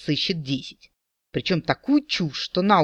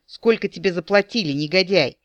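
rising indignation, the last word pitched up; indignant questioning; 3 semitones higher than usual. Acted. The maiden accuses the captain of being bribed, indignant. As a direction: demand it, offended and accusing. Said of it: "с возмущением вопрошала она".

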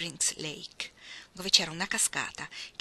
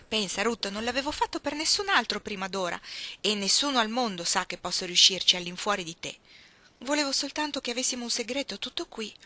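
lightly voiced girl, higher, eager to comfort; coaxing Iggy; 3 semitones higher, 4 dB louder than usual. Iggy offering honey to calm Ruth, lightly voiced coaxing. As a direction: talk her out of tears.

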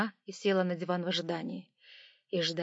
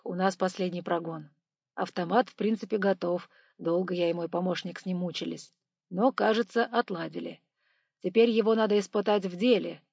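engineer voice; 4 dB louder than usual. Acted. Engineer explains the test.

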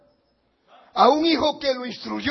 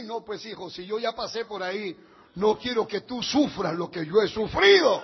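gentle father. Acted. Father answering the son.

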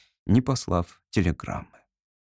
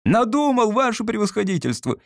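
joyful shout; 11 semitones higher than usual. A narrator's reading. Clerk bursts into the general's study, shouting joyfully. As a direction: burst in crying out with joy. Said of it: "закричал он радостно, не своим голосом".

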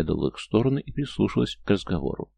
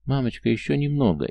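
put-on pleading child; 6 semitones higher than usual. Child begging mother.

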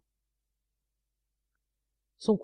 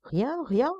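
stammering; 7 semitones higher than usual. Acted. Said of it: "Il balbutia".

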